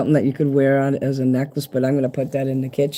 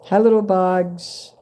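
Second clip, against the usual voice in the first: higher, slow little coo to tiny bugs; 5 semitones higher, slower than usual. Acted. Greeting bugs in the package, high slow coo.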